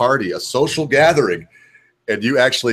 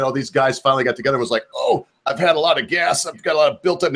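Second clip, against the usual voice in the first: lightly voiced mocking impression, higher and quick; a hint of a silly gassy-guy voice; 4 semitones higher than usual. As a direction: poke fun at them with a mild put-on voice. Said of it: "he is mocking these people".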